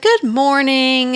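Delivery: drawn-out, cheery morning greeting. Retold or imitated. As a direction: lightly imitate someone all bright-spirited. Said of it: "she's in a cheery mood".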